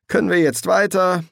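high, loud, impatient urging; pressing. A narrator's reading. Demon urges the angel to drive on, pressing. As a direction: push them to get moving. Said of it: "drängte Crowley".

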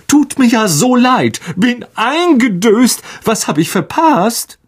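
high, beaming, oblivious vain wizard; cheery Lockhart. A narrator's reading. Lockhart strolling in late to the grim staff meeting, beaming. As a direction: sing it out, carefree and pleased with himself.

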